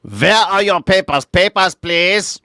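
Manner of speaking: loud, high officious guard voice; cool foreign spy menace. Pretend. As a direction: demand papers like a border guard. Border guard demanding papers.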